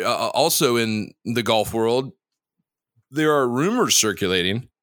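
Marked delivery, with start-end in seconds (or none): 3.1-4.7 talking through hiccups. Real, not acted. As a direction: hiccups breaking the words. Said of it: "pardon me, I've got the hiccups".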